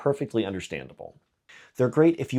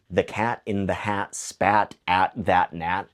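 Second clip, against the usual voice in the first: slow rhyme demo; slower than usual. Shown as a demonstration. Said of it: "stack them back to back".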